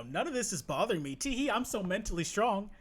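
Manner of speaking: tee-hee mockery of someone acting unbothered; put-on breezy voice, mocking; mocking self-reassurance. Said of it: "He has to let people know".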